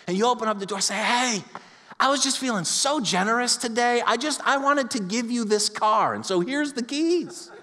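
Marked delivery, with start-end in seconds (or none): 1.1-7.5 lightly acted cheerful giver, pitched up; higher voice, stretched out on the final offer; mock generosity. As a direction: offer it like a big favor. Acting out a cheerful car giver.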